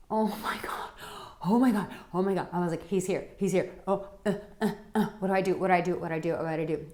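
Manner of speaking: retold panic in breathy gasps and quick repeats; gasp, then babble the panicked words; freaking out. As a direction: act out a starstruck mini freak-out. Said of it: "I was freaking out".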